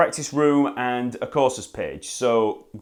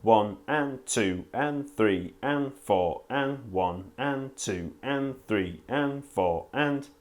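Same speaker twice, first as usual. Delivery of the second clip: slow count, every and drawn out evenly; 5 dB quieter, slower than usual. Shown as a demonstration. Bass teacher slowly counting down and up beats, steady. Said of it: "visualize the upbeat as the hand comes up".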